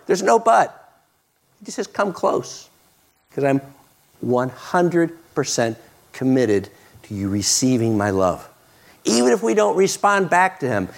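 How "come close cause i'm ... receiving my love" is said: tender reassurance. Retold or imitated. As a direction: promise it gently, voice dropping. Voicing Jesus tenderly.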